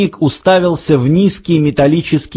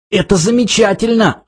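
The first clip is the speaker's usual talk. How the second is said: high, strained mock-rasp; choked rasp; 7 semitones higher than usual. A narrator's reading. Arthur dragged by the neck, rasping high. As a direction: squeeze it out high, as if half throttled. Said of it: "хрипел Артур".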